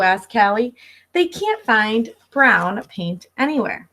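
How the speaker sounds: lively picture-book read-aloud; reading to children. Acted. Teacher reading Pete the Cat to her class, storybook voice. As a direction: read it like story time for little kids.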